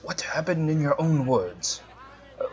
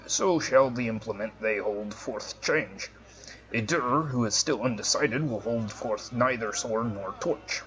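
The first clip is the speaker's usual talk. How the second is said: solemn judge; 3 semitones lower, 3 dB quieter than usual. Acted. Voicing the NPC judge.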